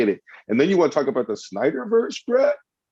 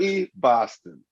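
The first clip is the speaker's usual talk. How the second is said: mock English accent. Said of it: "in an English accent".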